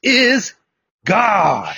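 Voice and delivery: God is rising loud and high; proclaiming. Shown as a demonstration. Preacher in Argentina proclaiming to the crowd, loud and high. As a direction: shout it so the hall falls silent. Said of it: "Think about that".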